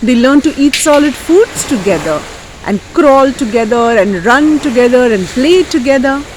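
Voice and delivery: animated, lilting storyteller; lively folk tale telling; story narration for children. Acted. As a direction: tell it with big swoops on key words.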